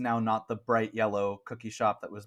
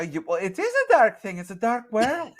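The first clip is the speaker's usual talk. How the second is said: put-on Scottish accent; 10 semitones higher, 5 dB louder than usual. Shopkeeper continues in voice.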